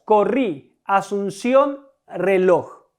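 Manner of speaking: "Corrí, asunción, reloj", each weighted on its last syllable; final-syllable stress. Shown as a demonstration. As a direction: set each word apart, leaning on "rí", "ción", "loj". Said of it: "Las sílabas tónicas en estas palabras es la última". ("Corrí, asunción, reloj", recargando la última sílaba de cada palabra)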